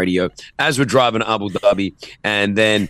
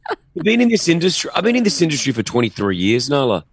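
mock wounded pride, slowed at the end; mock offended; 6 semitones higher than usual. Host teasing his co-host about her radio jab, mock outrage. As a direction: play the hurt veteran for laughs. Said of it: "just hammers me".

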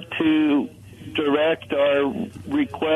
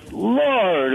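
higher-pitched mock plea; anguished cry; 6 semitones higher than usual. Caller imitates people crying out for help, anguished. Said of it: "we cry out in anguish".

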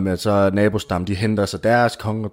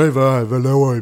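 guard's challenge; 4 semitones higher, 3 dB louder than usual. Acted. Guards burst in.

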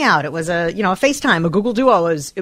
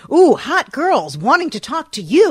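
late-night ad voice; 7 semitones higher than usual. Retold or imitated. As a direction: pitch it like a late-night phone-line ad. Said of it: "those late night commercials where it was like".

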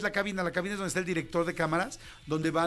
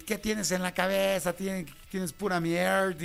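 harsh scolding; slower than usual. Retold or imitated. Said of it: "antes era así de".

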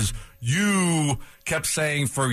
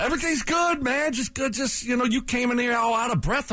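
much higher sing-song teasing voice; mock cheery; 9 semitones higher than usual. Cohost needling his breathless partner in a high mock cheery voice. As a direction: keep the fake high cheer going.

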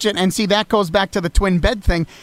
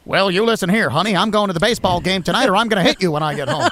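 lightly voiced black-and-white film tough guy; mock old-fashioned husband laying down the law; a hint of vintage movie patter; faster than usual. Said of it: "hear the guys talk like that".

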